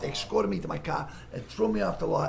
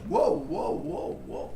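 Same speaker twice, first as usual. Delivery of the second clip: alarmed director; 14 semitones higher, much slower than usual. Retold or imitated. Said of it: "He goes".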